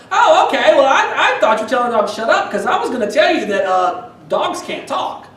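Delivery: high, loud, laughing sweet-lady voice; nosy lady. Retold or imitated. Woman explaining dogs can't talk: high, loud, laughing. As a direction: play the clueless lady, amused. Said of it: "And she's like".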